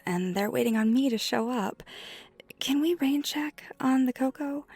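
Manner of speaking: stammering, apologetic panic at being late; flustered alarm. Acted. Skater who is late for meeting friends, flustered. Suddenly realises they are late.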